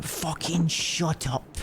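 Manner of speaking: slow, drawn-out insult; slow mock dad. Fed-up dad telling off the kid, slow. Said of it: "they're like".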